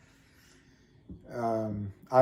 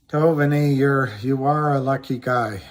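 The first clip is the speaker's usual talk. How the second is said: louder, calling the dog by name; 5 dB louder than usual. Real, not acted. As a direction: call "Tovani" out loudly across the room.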